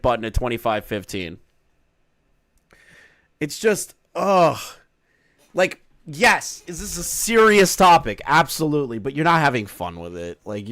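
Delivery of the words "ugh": exasperated groan. Real, not acted. Exasperated by boring streamer.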